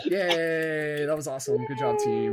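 bright, loud cheering; excited cheer. Real, not acted. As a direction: celebrate the team. Cheering after the group performance.

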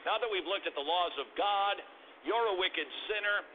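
a hint of a parent telling a child the good news; parent explaining. Shown as a demonstration. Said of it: "It might sound something like this".

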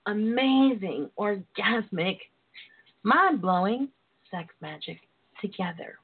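slow, savoring each word; slow sultry list. Acted. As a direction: draw out every word seductively.

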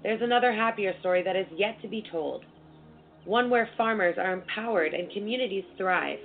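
measured, scripted ad-read delivery; sponsor ad read. Acted. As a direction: read it out as a polished sponsor spot. Reads a sponsor message.

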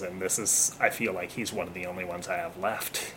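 choked up, holding back tears; teary-eyed. Real, not acted. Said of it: "sorry if I get a little teary-eyed here".

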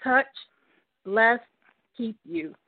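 halting, choked-up blessing, word by word; getting emotional. Real, not acted. Guest blessing her caller friend, overcome with emotion. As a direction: struggle to get each word out through real emotion. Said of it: "Oh, I'm getting emotional".

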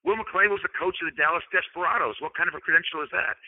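playful mock scorn; sarcastic. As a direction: question the credential tongue in cheek. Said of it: "I'm saying this sarcastically".

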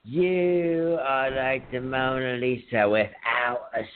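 a hint of slow, dreamy poet reading; Chris impression. Friend imitates ex reading his napkin poem, lightly voiced and slow. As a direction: drawl the verse like a lovesick poet. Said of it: "Good impression, by the way".

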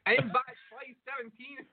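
hammed-up Indian caller voice; Indian accent. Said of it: "your best I-, or, uh, Indian voice".

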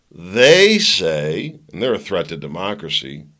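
sarcastic, leaning loudly on the opening words then dropping. Real, not acted. Host mocks the threat to democracy line, sarcastic. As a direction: say it with heavy sarcasm.

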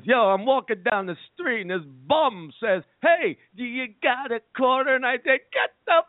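a light take on a comedian's voice, close to his own; Chris Rock impression. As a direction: lightly imitate the comic's rhythm while telling the bum story. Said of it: "He's a great impression".

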